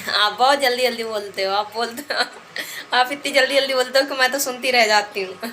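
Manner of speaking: tickled, breaking into a laugh at the end; amused retelling. Retold or imitated. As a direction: quote the comment while holding back giggles. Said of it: "मुझे हंसी इसलिए आ रही है".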